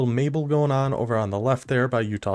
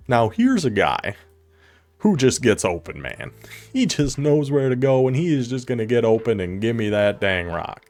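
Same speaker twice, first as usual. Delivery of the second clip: Chris Collinsworth impression. Streamer doing a lightly voiced broadcast commentator gushing over a receiver. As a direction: ham up a TV color commentator gushing. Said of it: "That's my Chris Collinsworth impression".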